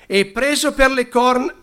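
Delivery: stumbling over the word "corn-", rising as it breaks off; misread cut off. Real, not acted. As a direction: trip on "corn-" and stop mid-word.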